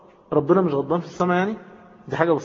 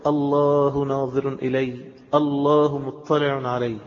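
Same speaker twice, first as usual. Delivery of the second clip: contemplative repetition; slower than usual. Shown as a demonstration. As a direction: draw the words out meditatively. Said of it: "اقعد قولها كده".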